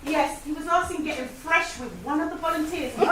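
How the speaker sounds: walkie-talkie voice. Pretend. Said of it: "pretend you are speaking to the safety officer".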